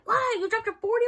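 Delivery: high, loud "You dropped your forty?"; a friend gasping at the news; shocked disbelief. Retold or imitated.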